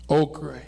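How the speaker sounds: "okra" said with an "ee" ending; dialect pronunciation. Real, not acted. Grandson listing grandfather's garden crops, "okra" said "oh-kree". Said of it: "we say okra".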